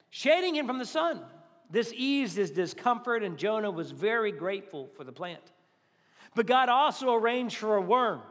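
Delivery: measured Bible reading to the church; scripture reading. Acted. Pastor reading Jonah aloud to the congregation, measured. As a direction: read the passage steady and clear.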